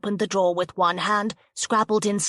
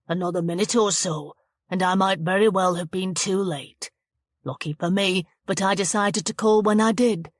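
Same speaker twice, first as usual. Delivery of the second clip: smug villain. Acted. Patrick villain monologue.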